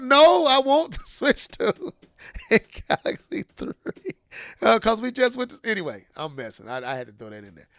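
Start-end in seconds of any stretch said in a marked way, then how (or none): 0.0-3.7 put-on high-pitched kid insisting, breaking into laughter; little boy. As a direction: play a demanding child, pitched up. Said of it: "Little Timmy".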